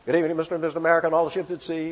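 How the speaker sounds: very fast newsreel patter, lightly voiced; rapid-fire Walter Winchell. Preacher mimicking Walter Winchell's radio opening. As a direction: rattle it off like an old radio gossip man. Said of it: "remember Walter Winchell?".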